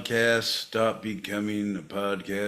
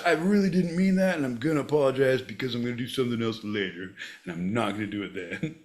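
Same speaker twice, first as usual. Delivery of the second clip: apologizing; 2 semitones higher, faster than usual. Shown as a demonstration. Sample lesson apologizing twice to John, rushed contrite demo. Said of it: "Apologizing twice".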